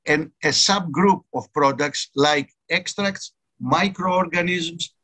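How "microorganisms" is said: "microorganisms." said slowly and deliberately, each syllable spelled out; underlined word. Shown as a demonstration. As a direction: lean on "microorganisms." and draw it out to mark it as key. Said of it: "I underline the word microorganism".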